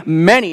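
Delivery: many drawn out and weighted; many, hit and held; stress on many. Shown as a demonstration. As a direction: lean on the word many. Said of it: "not, not few, not some".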